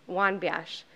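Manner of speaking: stumbling over the words; tripping on syllables, words won't come out; tongue tied. Real, not acted. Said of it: "My mouth is not working".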